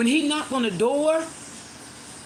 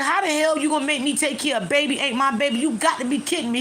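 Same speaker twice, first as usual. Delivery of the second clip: higher, fast, mock outraged retort; retold outrage; 4 semitones higher, faster than usual. Boyfriend refusing to raise the baby, mock outraged. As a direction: fire it back in disbelief, a bit up in pitch. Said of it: "He was like".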